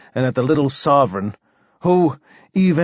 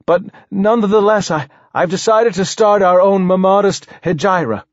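higher voice, catching on words; stuttering king; 6 semitones higher, 3 dB louder than usual. Acted. King reveals his exile plan to poet, stammering. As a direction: announce the plan with a halting stammer.

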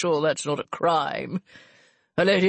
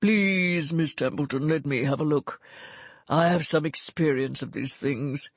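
calm. A narrator's reading. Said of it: "Gervase said calmly".

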